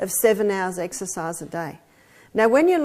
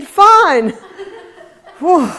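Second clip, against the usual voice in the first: grudging yes; 7 semitones higher, 10 dB louder than usual. Retold or imitated. Reluctant reply to friend.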